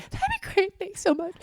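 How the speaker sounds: imitating her own overly grateful reply; mock sweet thanks. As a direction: gush it in a tiny polite voice. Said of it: "I'm like".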